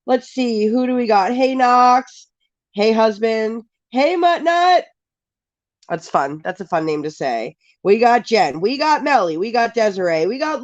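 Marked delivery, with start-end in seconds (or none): 3.9-4.8 high, playful hello; cheerful higher-pitched call-out; playful greeting. Real, not acted. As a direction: relish saying a fun name. Greeting viewer with fun name.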